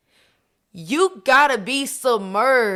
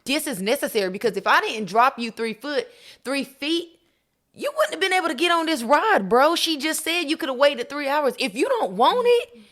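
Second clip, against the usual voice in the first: God's stern voice; 5 semitones higher than usual. Pretend. Voicing God speaking to her.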